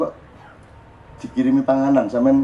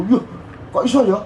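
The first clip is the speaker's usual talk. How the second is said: put-on much higher, excited little boy marvelling at a worm; child's amazed reaction; 7 semitones higher than usual. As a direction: gasp in wonder like a four-year-old. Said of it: "Gitu reaksinya".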